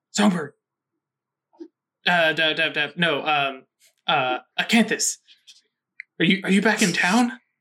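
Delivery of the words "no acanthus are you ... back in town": very half-whispered, secretive voice. Jimmy Small answers a phone call in a role-played scene, in a hushed half-whisper. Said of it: "in a very whispered kind of hushed voice".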